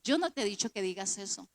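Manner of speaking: low, soft inner rebuke; understated, low corrective voice; Espíritu Santo. Retold or imitated. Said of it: "el Espíritu Santo me dice".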